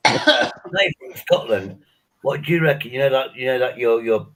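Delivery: loud teasing hail; calling out. Real, not acted. Teasing the Scotsman on the call, loud hail.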